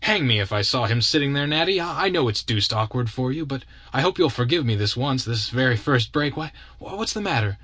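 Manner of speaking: put-on young man apologizing to Natalie, then puzzled; breezy young man. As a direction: brush off the blunder, then startle.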